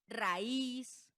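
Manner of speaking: raíz in two syllables, "ra-ÍZ"; hiatus example. Shown as a demonstration. Teacher giving examples of the rule, stressed hiatus. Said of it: "Por ejemplo".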